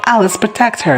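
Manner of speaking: high-pitched mock urgent call; retold urgent plea. Retold urgent order in a crisis.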